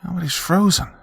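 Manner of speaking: high, whining protest; whiny kid. Acted. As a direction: whine like a sulky boy.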